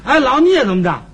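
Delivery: hammed-up comic tantrum; worked up. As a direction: get huffy and build into high-pitched protest. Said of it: "他倒跟人急了".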